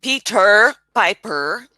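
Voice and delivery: "Peter Piper" slowly, leaning on the American R endings; "Peter Piper" slowed to show the R; pronunciation model. Shown as a demonstration. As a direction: stretch the final R's in "Peter Piper". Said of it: "No, it's the R".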